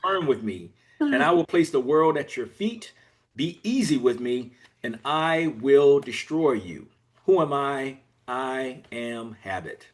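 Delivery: deliberate build to a slow, hushed close; slow down for the reveal and drop away at the end; poem recitation. Acted. Habit revealing who it is, dramatic poem recitation.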